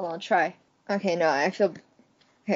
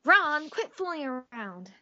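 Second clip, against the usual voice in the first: light cartoon-heroine scolding; Kim Possible impression; 3 semitones higher than usual. Playing Kim Possible scolding Ron, lightly voiced. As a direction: scold your sidekick like a teen hero. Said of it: "you got your skill back".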